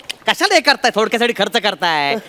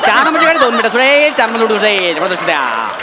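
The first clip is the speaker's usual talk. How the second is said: through a megaphone. Acted. Station announcement over speakers.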